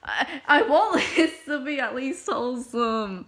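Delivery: laughing nervously while pleading; half-laughing, begging it stays wholesome; giggly, embarrassed plea. Real, not acted. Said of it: "please don't turn this into".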